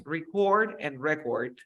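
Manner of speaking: record first as REC-ord, then as re-CORD; the noun record and then the verb record. Shown as a demonstration. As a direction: say record with first-syllable stress, then with second-syllable stress. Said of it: "Noun and verb".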